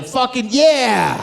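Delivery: drawn-out slow cheer, then gloating; mock cheering. Comic on TV cheering the protesters, mock enthusiasm. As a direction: cheer them on like a pundit. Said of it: "I was the guy on T V going".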